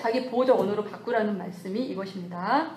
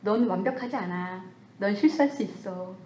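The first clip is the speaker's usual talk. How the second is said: soft self-comfort. Retold or imitated. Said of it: "이렇게".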